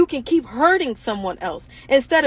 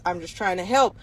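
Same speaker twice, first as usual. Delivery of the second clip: lower, sheepish mock "I'm just trying to help"; mock innocent excuse; 8 semitones lower than usual. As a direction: sneer at their fake helpfulness. Mocking docuseries makers.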